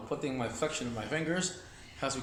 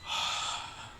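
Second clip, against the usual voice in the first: heavy exhale; 4 dB quieter than usual. Shown as a demonstration. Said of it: "if I don't catch my breath like that".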